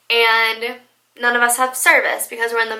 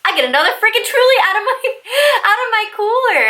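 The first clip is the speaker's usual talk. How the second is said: laughing through the words, higher and faster; 9 semitones higher, 4 dB louder, faster than usual. Real, not acted. Telling friends about drinking more, laughing. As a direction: giggle it out as you go. Laughing at her own drunkenness.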